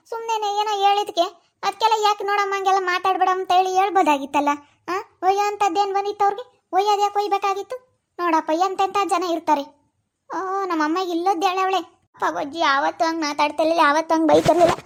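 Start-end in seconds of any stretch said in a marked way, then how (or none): 0.1-11.8 indignant mother. Acted.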